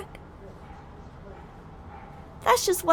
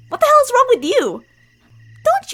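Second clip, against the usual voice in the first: higher, louder, snapping back; angry outburst; 9 semitones higher, 8 dB louder than usual. Acted. Childhood friend snapping at the listener, angry outburst. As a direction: throw the question back in anger.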